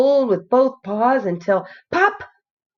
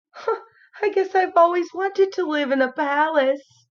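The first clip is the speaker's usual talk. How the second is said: higher, wistful bear voice; dreamy wonder; 9 semitones higher than usual. A narrator's reading. Toy bear wishing to live in a palace. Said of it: "Corduroy gasped".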